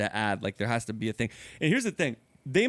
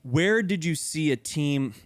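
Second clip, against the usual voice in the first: slow reading; slower than usual. Shown as a demonstration. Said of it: "question number three".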